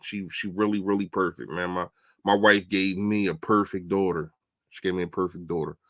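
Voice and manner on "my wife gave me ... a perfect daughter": ordinary delivery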